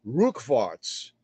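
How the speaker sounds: rückwärts said low, German "RUCK-verts"; German word rückwärts. Shown as a demonstration. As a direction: say rückwärts quietly and clearly.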